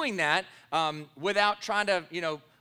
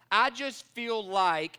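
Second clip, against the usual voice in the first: mimicking feelings talk; much slower than usual. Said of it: "you fill the blanket with anything".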